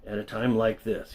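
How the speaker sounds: mildly imploring, hurt at the accusation; pleading. Retold or imitated. Dan pleading with the narrator, mild hurt plea. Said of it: "he pleaded".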